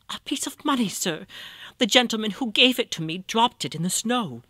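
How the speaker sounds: put-on high, humble old woman; old beggar woman voice. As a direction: answer as a timid blind beggar.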